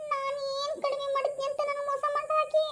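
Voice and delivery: jealous husband. Acted. Husband feels cheated by wife.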